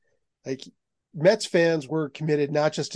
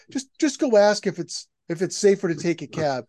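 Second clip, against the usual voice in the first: higher, louder worried mother pleading; nervous mom; 4 semitones higher, 4 dB louder than usual. Retold or imitated. Mother nervous in New York, urging her son to ask, higher worried voice. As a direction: play the anxious mom, pitched up.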